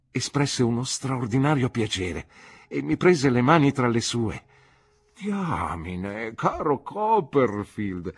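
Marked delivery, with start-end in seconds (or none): 5.2-8.1 put-on a delighted old doctor's slow exclamation; exclaimed. Old doctor greeting his former pupil, slow delighted exclamation. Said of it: "esclamò il dottore".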